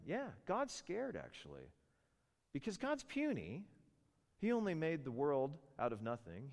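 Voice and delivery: scornful mock sarcasm; sarcastic. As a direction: sneer at the idea with exaggerated pitch. Sarcastic mockery of Satan's claim.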